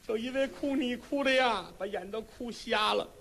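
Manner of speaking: lightly voiced, a touch of weeping; an old woman sighing over her lost sight; mild tearful old mother. Blind mother explains her tears.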